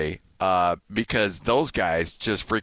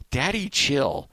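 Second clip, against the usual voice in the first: meme imitation; 6 semitones higher, slower than usual. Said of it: "and this guy goes".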